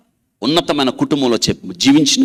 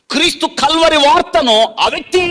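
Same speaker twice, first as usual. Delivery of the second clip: much higher, loud call; preaching; 5 dB louder than usual. Acted. Preacher calls out about the Calvary message, loud and high. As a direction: ring it out to the church.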